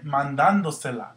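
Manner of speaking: "mandándosela" said man-DAN-do-se-la; stress on DAN. Shown as a demonstration. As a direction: keep the weight on DÁN in "mandándosela". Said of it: "that's where your accent needs to go".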